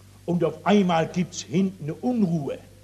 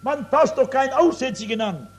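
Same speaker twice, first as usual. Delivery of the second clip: horrified crowd cry; 5 semitones higher, faster than usual. Retold or imitated. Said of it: "Die Leute haben geschrien vor Entsetzen".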